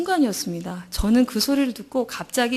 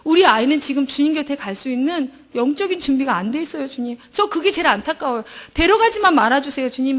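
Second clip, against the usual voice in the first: raised, pleading retold prayer; tearful plea; 2 semitones higher than usual. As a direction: beg God through tears. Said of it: "눈물로 부르짖었든지".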